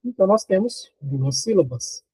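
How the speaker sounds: ordinary talk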